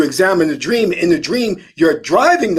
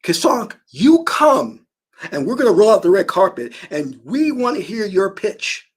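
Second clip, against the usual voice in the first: excited invitation; 4 semitones higher than usual. Retold or imitated. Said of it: "And they said".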